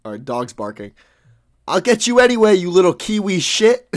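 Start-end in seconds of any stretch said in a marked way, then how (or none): 1.7-3.9 higher, louder snarling threat; loud lion threat. Acted. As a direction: shout the threat at the dog. Lion lunging at dog.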